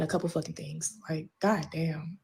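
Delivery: whispered goddamn. Real, not acted. Exasperated aside.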